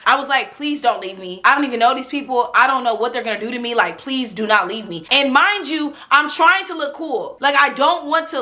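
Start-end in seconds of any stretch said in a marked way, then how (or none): 0.6-5.1 begging her not to leave, words tumbling out; retold begging. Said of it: "I was begging her".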